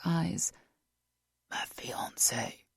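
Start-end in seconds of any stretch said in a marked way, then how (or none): 1.5-2.6 soft whispered breath; whispering. A narrator's reading. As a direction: whisper it, barely voiced. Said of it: "he whispered".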